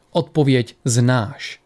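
very slow stern reminder; sternly. Acted. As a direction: lay it down slowly, no argument. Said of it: "řekl přísně Ari".

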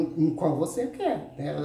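ordinary talk

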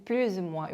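"plus ou moins" linked as plu-zou-moins; teacher models the liaison in "plus ou moins"; liaison demo. Shown as a demonstration. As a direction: sound a z between plus and ou in "plus ou moins". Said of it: "요것도 이제 연음을 해주고요".

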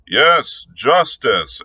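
crowd cry. Acted. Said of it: "echoed a dozen voices".

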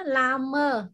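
"Lama" said with a curled tongue; tongue-curled teaching pronunciation of "Lama". Shown as a demonstration. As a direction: model "Lama" curling the tongue up. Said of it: "cái này cong lưỡi lên nhá".

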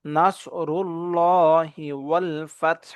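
heavy rounded s in "নাসরুল্লাহি"; rounded-lip Sad. Shown as a demonstration. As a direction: slowly recite "নাসরুল্লাহি" with rounded lips on the s. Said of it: "ঠোঁটটাকে গোল করব".

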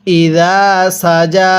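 ইদা সাজা with thin স and firm জ; slow recitation. Shown as a demonstration. Teacher models the verse slowly for students. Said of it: "আমার সাথে মিলিয়ে পড়ুন".

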